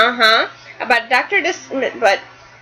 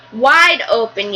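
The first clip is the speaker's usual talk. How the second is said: mild yell; 2 semitones lower, slower than usual. Acted. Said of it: "yelled his wife".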